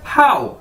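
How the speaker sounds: हाउ like English how; हाउ modelled plainly, clearly; Chinese hǎo. Shown as a demonstration. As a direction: say हाउ as one gliding syllable. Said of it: "इसे अदा कैसे करना है".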